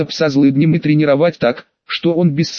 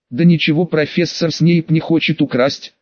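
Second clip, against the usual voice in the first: plain reading voice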